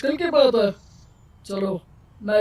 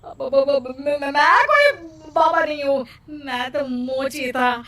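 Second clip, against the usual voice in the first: scared stammer. Acted. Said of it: "डर के कारण सच बोलना पड़ता है".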